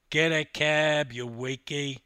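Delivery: loud opening, teasing put-down; interjected jibe. Acted. Teammate butting in on the swimmer, jibing. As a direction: toss in a jibe. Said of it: "interjected Susie".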